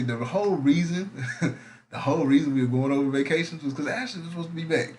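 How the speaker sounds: laughing through the words. Real, not acted. Host laughing as he explains the topic change. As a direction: chuckle while you explain the plan.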